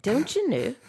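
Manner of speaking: high-pitched mock Minnesotan; Minnesotan accent. Trying out an accent on friends, mock Minnesotan accent. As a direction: imitate a Minnesotan, pitched well up. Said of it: "What about a Minnesotan accent?".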